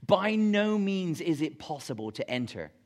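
BY NO MEANS pressed hard and held up; emphatic. Retold or imitated. Preacher renders Jesus' emphatic original wording, emphatic. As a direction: hit "By no means" with full emphasis. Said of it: "he's really emphatic".

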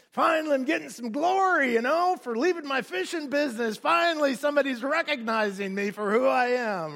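a fisherman finally getting his glory, chest out; pompous Peter. Retold or imitated. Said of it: "pompous Peter".

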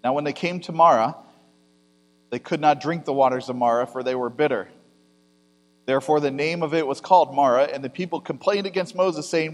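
measured, solemn Bible reading; steady scripture read before the sermon. Acted. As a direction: read the verses out to the congregation. Reads the scripture passage aloud.

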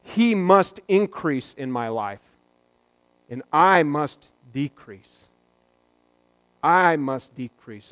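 solemn quote. Retold or imitated. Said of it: "And he says out loud".

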